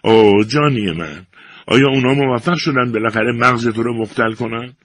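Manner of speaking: mildly weepy plea; tearful. A narrator's reading. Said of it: "صورتش را اشک پوشانده بود".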